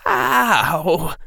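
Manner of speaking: high, cracking with tears; the word stuck in his throat; a boy on the verge of crying; choked. Acted. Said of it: "Harry's voice was blocking".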